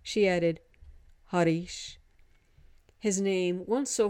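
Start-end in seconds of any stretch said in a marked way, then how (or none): 1.3-2.0 "Harish" with a hint of a flipped D in the middle; "Harish" as its owner says it, tongue flicked mid-word. A narrator's reading. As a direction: say "Harish" with the middle R lightly tapped like a D. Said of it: "a hint of the tongue-flip D".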